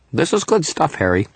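put-on pleased little fairy, high as a kid; high-pitched small eater; Toot's high-pitched voice. A narrator's reading. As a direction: approve in a high childlike voice. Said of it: "His voice was high-pitched".

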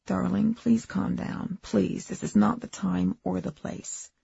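slow, soft and soothing; calming. Acted. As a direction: hush her gently and slowly. Husband soothing wife in corridor.

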